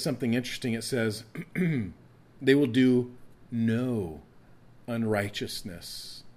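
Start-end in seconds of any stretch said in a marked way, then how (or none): 2.4-6.2 They will do... no... unrighteousness, long pauses around no; slow, weighty stress on no. Shown as a demonstration. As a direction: set no apart with pauses. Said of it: "The word "no" is emphatic in the Hebrew".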